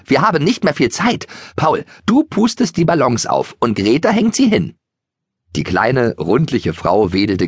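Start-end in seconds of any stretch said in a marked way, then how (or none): 0.0-4.7 bustling Maria. A narrator's reading. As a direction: hand out jobs in a rush, pitched up. Maria bustles, giving orders.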